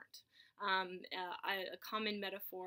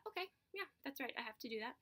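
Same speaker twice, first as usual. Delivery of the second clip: higher, offhand self-talk; light acknowledgment; 3 semitones higher, 3 dB quieter, much faster than usual. Acted. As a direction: briefly acknowledge a passing thought. Acting out noticing a passing thought.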